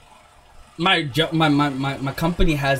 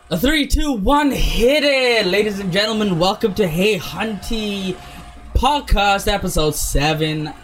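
hype announcer; 4 semitones higher than usual. Acted. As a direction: count in like a show host. Podcast intro announcement.

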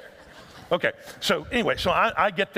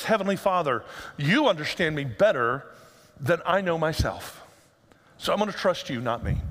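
prayer voice. Shown as a demonstration. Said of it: "an alternate prayer to pray".

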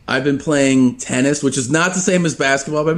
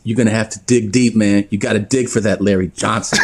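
coach impression; 4 semitones lower than usual. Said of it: "He goes".

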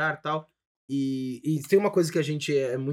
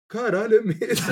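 sheepish realization; 5 semitones higher than usual. Retold or imitated. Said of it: "Com essa entonação de voz".

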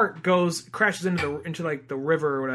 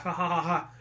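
a mock evil ha ha ha, softer; mock evil laugh; 5 dB quieter than usual. Shown as a demonstration. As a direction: demonstrate a hammed-up cartoon villain laugh. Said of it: "This is how I sound when I laugh".

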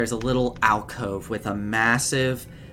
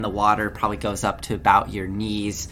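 usual speaking voice

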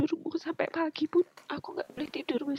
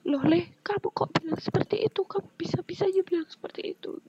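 higher-pitched retold scolding; angry father; 5 semitones higher, 3 dB louder than usual. Husband scolding their son for his words, retold anger. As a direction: imitate a dad's indignant reproach, pitch raised. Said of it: "Dia marah. Dia bilang".

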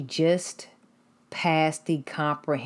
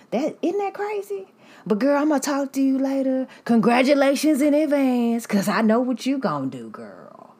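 much higher and louder, gushing; loud high classmate; 9 semitones higher, 5 dB louder than usual. Retold or imitated. Classmate congratulating the narrator in advance, in a loud high gushing voice. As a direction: ham up her loud sendoff.

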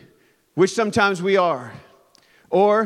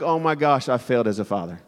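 dismayed; 6 semitones lower than usual. Retold or imitated. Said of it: "I'm like".

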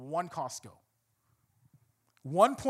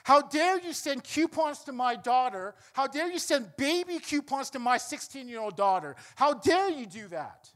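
retold angry yelling; 5 semitones higher than usual. Angry father confronting the store manager over coupons, retold yelling. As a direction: act out an indignant dad's raised-voice complaint. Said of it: "he's yelling his ear out".

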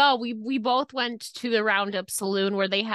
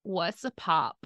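puzzled local; slower than usual. Retold or imitated. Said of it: "they were like".

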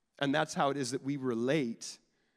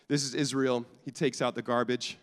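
mock proud introduction; 3 dB louder than usual. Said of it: "pointed to the boy and was like".

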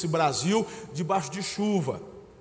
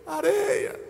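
panicked thoughts; 7 semitones higher than usual. Retold or imitated. Preacher voicing the anxious mind during the storm, building panic. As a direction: let the fear build until it breaks out. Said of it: "pensar coisas assim".

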